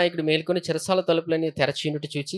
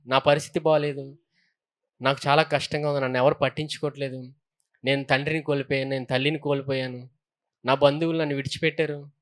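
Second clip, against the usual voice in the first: lightly voiced sufferer, lower and softer; a touch of low, quiet self-pity; downcast complaint; 4 semitones lower, 3 dB quieter than usual. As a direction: recount troubles in a subdued, low voice.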